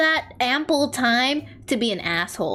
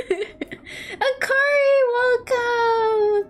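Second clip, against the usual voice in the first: laughing greeting; 10 semitones higher, much slower than usual. Real, not acted.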